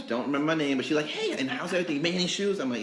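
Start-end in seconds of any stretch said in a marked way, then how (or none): 1.1-2.6 higher-pitched imitation of a welcoming mom; friendly mom greeting. Mom asking a customer about work, friendly imitation.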